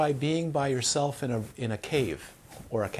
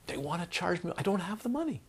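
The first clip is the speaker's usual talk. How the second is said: retold tearful complaint; 7 semitones higher, 5 dB quieter than usual. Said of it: "And she's crying".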